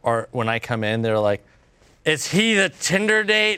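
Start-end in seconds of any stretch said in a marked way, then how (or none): 2.0-3.6 put-on nosy drunk lady. Drunk older women eyeing him.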